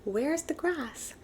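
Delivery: high, slow wondering question; puzzled squeak. A narrator's reading. Little Deer asking where the grass went, high and slow. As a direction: draw it out, high and baffled.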